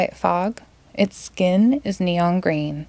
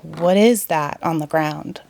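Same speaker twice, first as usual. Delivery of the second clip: lightly voiced witch; 4 semitones lower than usual. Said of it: "The witch points underneath and asks".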